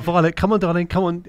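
coaxing parent. Retold or imitated. Embarrassed dad calling his daughter away, lightly acted coaxing. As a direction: imitate calling a child away. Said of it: "And I'll be like".

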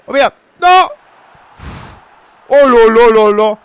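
excited exclamation. Real, not acted. Reacting to a game action.

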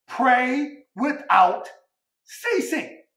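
preacher drawing out the verse; sermon scripture read. Acted. Preacher reading the verse to the church, drawn out. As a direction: lean into the verse slowly.

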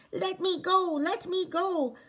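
frantic little man yelling; shouting. Acted. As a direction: squeal to be set free. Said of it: "the leprechaun shouted".

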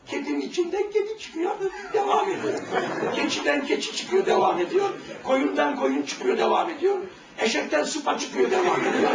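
each "devam ediyor" pitched high; rhythmic refrain. Real, not acted. Preacher driving home to the youth that each animal goes on.

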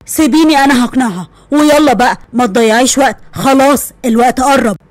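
father ordering daughter to wear the dress; firm father. Acted. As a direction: lay down the law gently. Father voiced lower.

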